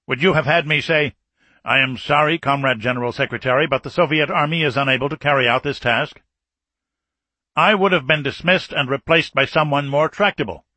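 put-on a tense, forceful old general; stern Soviet marshal. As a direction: press the point like an embattled commander. General defends his choice.

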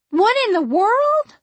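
high loud shocked cry. A narrator's reading. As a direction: gasp it out in disbelief. Vree shocked.

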